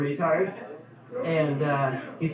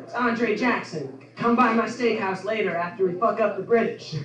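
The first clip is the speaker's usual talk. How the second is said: mock president; 5 semitones higher than usual. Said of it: "he's like".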